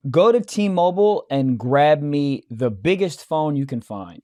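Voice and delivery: put-on American accent. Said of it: "doing American's really hard".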